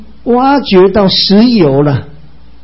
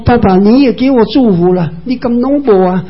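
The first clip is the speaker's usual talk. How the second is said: 哀求；音调抬高，演出恳求的语气；学以扫向爸爸苦苦央求，声音拔高；懸音哀求; 6 semitones higher than usual. Acted. Esau begs father for blessing.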